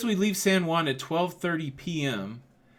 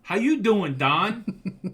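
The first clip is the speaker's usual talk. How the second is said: loud, high hello copied from his wife; playful echo of the greeting; echoed excited greeting; 5 semitones higher, 5 dB louder, much slower than usual. Real, not acted. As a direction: shout the same hello right back.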